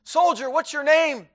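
high, loud, slow demand; stern commanding. Acted. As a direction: bark the question like a general. Commander confronts sleeping guard.

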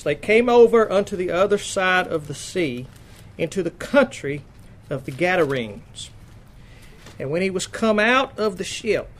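measured, emphatic Bible reading; scripture reading. Acted. Preacher reads Mark's gospel to the congregation, emphatic scripture reading. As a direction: read out the verse in deliberate, weighted phrases.

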